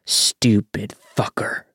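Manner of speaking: slow whispered curse; muttering. Retold or imitated. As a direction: hiss it under your breath. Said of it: "muttering things like".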